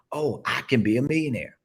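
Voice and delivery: convinced realization. Shown as a demonstration. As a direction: say "Oh, I can be a millionaire" like it just dawned on you. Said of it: "You see how I just changed it?".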